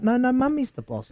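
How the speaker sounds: put-on kids insisting. Kids overruling dad, high childish voice. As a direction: squeak it like a stubborn little kid. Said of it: "And I'm like".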